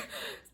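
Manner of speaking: soft little chuckle; real laugh at her own story; brief laugh. Real, not acted. Mother amused by her flood of water, soft laugh.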